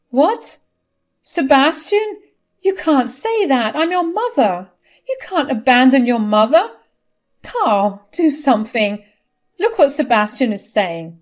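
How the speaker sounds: high, loud shocked protest; a mother refusing to be abandoned; outraged mother. Acted. Nina protests to her son.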